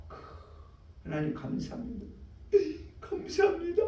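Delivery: acted believer choking up, voice breaking into a sob at the end; tearful realization. Preacher voicing a believer overcome with gratitude, tearful. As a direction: play someone suddenly seeing the truth, moved to tears.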